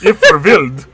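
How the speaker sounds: put-on a light, accidental Russian accent. Teasing Carl, tries a Swedish accent but sounds Russian. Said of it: "That came out Russian".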